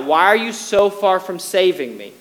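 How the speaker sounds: pleading cry, building to a loud question; preacher's acted cry of lament. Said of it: "And David cries out".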